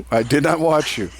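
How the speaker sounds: said through a laugh; laughing denial. Real, not acted. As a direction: deny it while cracking up. Repeats the denial while laughing.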